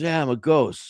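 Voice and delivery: put-on little boy. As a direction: answer like a small boy. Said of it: "He goes".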